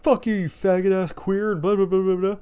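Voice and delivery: high, loud string of insults; mock angry ranting. Friend cursing out the boss, mock angry rant. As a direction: rattle off an imitated tantrum.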